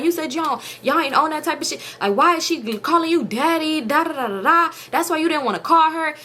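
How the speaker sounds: high-pitched retold confrontation; getting into her. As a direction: replay laying into her with questions. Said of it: "I'm getting into her".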